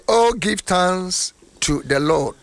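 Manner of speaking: slow, deliberate psalm reading; English scripture reading. Real, not acted. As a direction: read it out phrase by phrase, stretching the key words. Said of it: "English reading".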